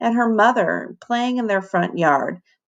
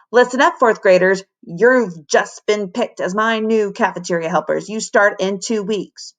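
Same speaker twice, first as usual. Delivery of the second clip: bellowing through bullhorn. Acted. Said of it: "bellowed through her bullhorn".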